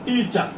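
teacher's demo of ଟିଚର, weight up front; stress on first syllable. Shown as a demonstration. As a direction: lean on the opening syllable of ଟିଚର. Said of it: "ଏଠି ଆମେ stress ଦେଉଛୁ".

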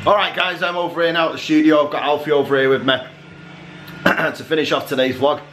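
talking while chewing gum; words round a piece of gum. Real, not acted. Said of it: "Sorry, I'm chewing chewing gum".

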